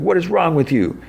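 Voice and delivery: hammed-up accusing wail, kept off full volume; anguished demand. Keith over his dad, anguished high accusation.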